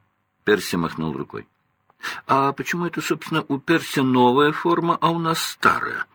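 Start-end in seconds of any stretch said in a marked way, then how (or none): 2.3-6.0 higher, quick protest of the twins; a touch of indignant surprise; sudden realization. A narrator's reading. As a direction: catch on all at once. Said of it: "спохватился".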